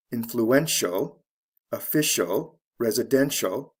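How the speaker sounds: "influential, official, residential", each ending in the same "shul"; spaced-out list of "influential, official, residential", endings matched; matching "shul" endings. Shown as a demonstration. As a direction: model the identical final sound in "influential, official, residential". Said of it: "all sound the same".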